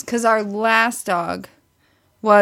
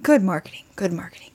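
wry comment; 5 semitones lower, faster than usual. Retold or imitated. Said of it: "I'm like".

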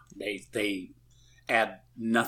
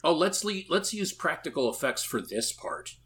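high, eager mock pitch of an idea; mock filmmaker, excited; 8 semitones higher than usual. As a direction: sell the bad idea like a proud filmmaker. Mocking filmmakers' decision.

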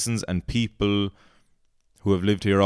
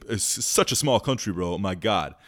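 tourist impression. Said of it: "the impression of this guy is on point".

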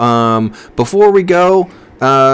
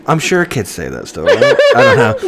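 put-on college girl voice; 3 semitones higher than usual. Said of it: "I can't keep the voice".

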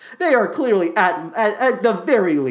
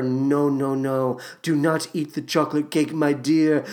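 mild Michael Crawford voice. Retold or imitated. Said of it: "he was there saying to her".

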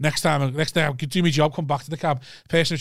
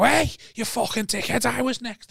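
retold indignant challenge; 6 semitones higher than usual. Cabbie retelling his challenge to a queue-jumper, mock indignant. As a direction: call out a drawn-out "hey", lightly indignant.

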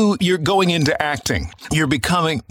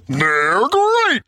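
drawn-out cartoon tiger catchphrase; Tony the Tiger; 8 semitones higher than usual. Podcaster showing off a famous voice actor's Tony the Tiger. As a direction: stretch it out like a cartoon mascot. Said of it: "Tony the Tiger".

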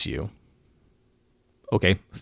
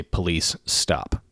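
firm command; much slower than usual. Shown as a demonstration. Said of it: "you say".

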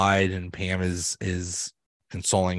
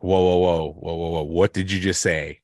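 startled Holly; 3 semitones lower than usual. Retold or imitated. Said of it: "Holly's like".

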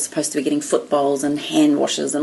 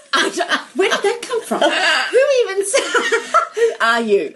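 high voice squeezed by laughter; helpless laughter; 12 semitones higher than usual. Real, not acted. Flustered at own remark before an audience, laughing helplessly. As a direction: try to talk while cracking up. Cracking up mid-sentence.

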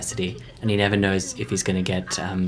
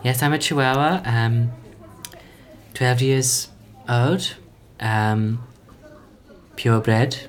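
yappy chihuahua voice; slower than usual. Pretend. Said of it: "this is the voice of a chihuahua".

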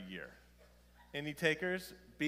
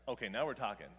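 tag; 2 semitones lower, 6 dB louder, faster than usual. Retold or imitated. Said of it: "I'll be like".

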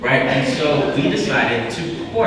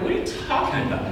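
breathy, high, fast disbelieving yelp; shocked disbelief; 6 dB quieter, much faster than usual. Retold or imitated. Pastor retelling his reaction to his friend, high shocked disbelief. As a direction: play the stunned friend who can't believe it.

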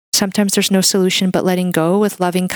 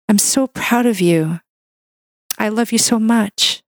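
tender self-talk; 3 semitones higher than usual. Shown as a demonstration. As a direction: talk to yourself like a loving friend. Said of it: "that's the self-talk that you deserve".

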